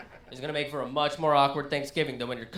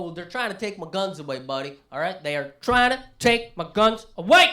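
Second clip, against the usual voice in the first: imitating a panicked gun owner; 6 dB louder than usual. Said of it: "they go".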